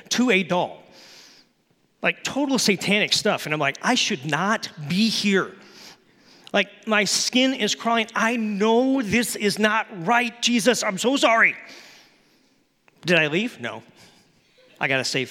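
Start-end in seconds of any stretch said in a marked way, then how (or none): 3.8-11.5 higher, pleading, building louder; scared confession to Jesus; teen squirming in a horror movie; anxious inner panic. Retold or imitated. Panicked inner thought in theater.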